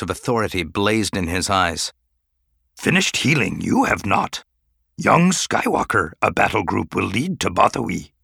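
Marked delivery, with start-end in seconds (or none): 2.8-8.1 put-on stern, authoritative old master; stern Yoda voice. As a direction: lay down the law. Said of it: "His face was stern".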